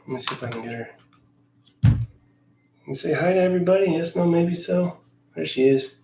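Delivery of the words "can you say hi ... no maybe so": higher, quick pet talk; sing-song chat with the cat. Real, not acted. Talking to the cat.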